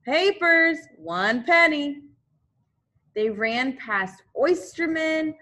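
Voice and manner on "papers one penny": high, loud street hawker's call; hawking papers to passersby; newsboy crying. Acted. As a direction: sell papers on the street corner. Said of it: "newsboys crying".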